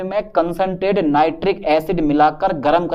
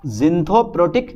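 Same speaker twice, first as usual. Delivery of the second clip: very slow name; much slower than usual. Shown as a demonstration. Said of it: "ज़िंथोप्रोटिक".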